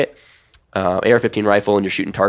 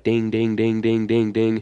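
evenly repeated ringing dings; ding out a rapid string of hits; imitated steel hits; 2 semitones higher, slower than usual. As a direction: mimic shots ringing on a target.

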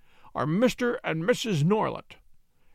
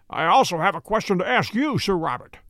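firm and louder, cold stern challenge; sternest tone; 4 dB louder than usual. A narrator's reading. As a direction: meet him with steel in the voice. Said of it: "he said in his sternest tone".

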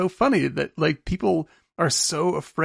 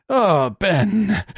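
sweaty husband voice; 5 semitones higher, 4 dB louder than usual. Retold or imitated.

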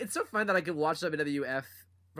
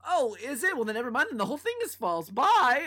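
high, breezy, loud flip-off; flippant woman; 8 semitones higher, 7 dB louder than usual. Retold or imitated. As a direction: brush it off, airy. Voicing Elizabeth.

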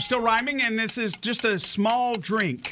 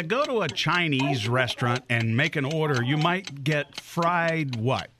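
low, unhurried quiz clue; leisurely, low-pitched clue-giving; slow stroll; 5 semitones lower than usual. Real, not acted. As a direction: take the clue slowly, drawing out the ending. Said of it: "take us a nice slow stroll".

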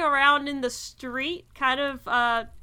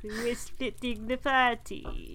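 teasing; 4 dB quieter, slower than usual. Acted. GM defiantly overrules players.

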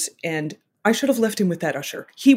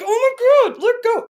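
very high-pitched frantic parent; imitated meltdown; 3 dB louder than usual. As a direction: squeal it like a parent losing it. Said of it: "I'm the one who's melting down".

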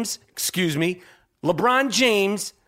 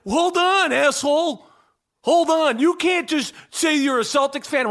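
indignant Boston fan; 6 semitones higher than usual. Acted. Boston fans objecting to a bandwagon newcomer, mock outrage. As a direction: cut in like an affronted local, hammed-up. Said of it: "people in Boston be like".

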